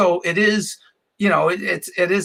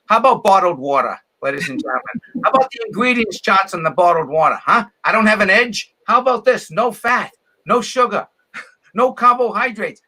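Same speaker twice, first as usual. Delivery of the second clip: higher, pushy comic pitching a joke; mock stand-up bit; 6 semitones higher than usual. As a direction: sell the bottled-water gag to a dead room, a bit higher. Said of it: "I'm up there going".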